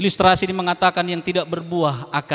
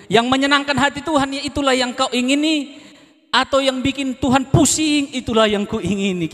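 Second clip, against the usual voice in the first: lifted song line; 11 semitones higher than usual. Shown as a demonstration. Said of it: "Tadi lagunya saya ulang-ulang".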